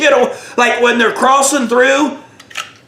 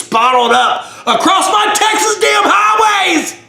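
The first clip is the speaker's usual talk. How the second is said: mock outraged trooper; 4 semitones higher than usual. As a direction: rant at him like an outraged cop. Trooper berating the driver.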